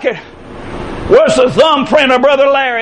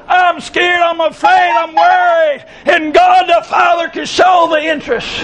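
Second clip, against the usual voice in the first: raised, fervent preaching voice; 3 semitones higher than usual. Real, not acted. Preacher rousing the congregation with fervent voice. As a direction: preach it out with full force.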